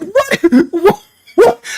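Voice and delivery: high, disbelieving what; stunned yelp of surprise; shocked what. Retold or imitated. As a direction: squeak it out in disbelief. Shocked at bird attack.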